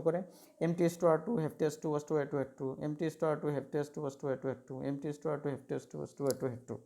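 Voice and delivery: rapid-fire drill. Shown as a demonstration. Teacher drilling students through a rapid word list. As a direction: rattle the word list off fast in one breath. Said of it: "এরকম করে তোমাদেরকে শিখতে হবে".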